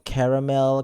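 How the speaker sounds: "caramel" as CARE-uh-mel; varying pronunciation. Shown as a demonstration. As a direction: open "caramel" like the word care. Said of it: "I say it completely different".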